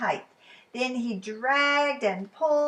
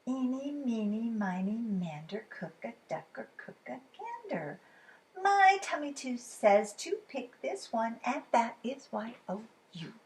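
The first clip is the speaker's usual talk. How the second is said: playful counting chant with a chuckle; sing-song fox rhyme; 2 semitones higher than usual. Acted. Fox picking which bird to cook, a hint of sly chanting.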